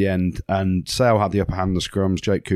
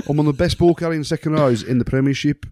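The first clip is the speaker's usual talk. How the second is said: cocky Birmingham teammate, higher and pushing; Birmingham accent; 6 semitones higher than usual. Retold or imitated. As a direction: brag in a Peaky Blinders Birmingham accent. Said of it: "You sound like a Peaky Blinder".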